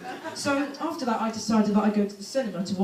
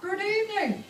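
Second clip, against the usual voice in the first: stern quiz-host voice, slow and deliberate; Anne Robinson impression; 3 semitones higher than usual. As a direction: play the cold Weakest Link presenter. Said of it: "Anne Robinson".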